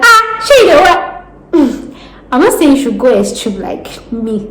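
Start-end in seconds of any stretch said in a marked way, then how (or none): 0.0-1.9 mock surprise. Imagined listener reacting.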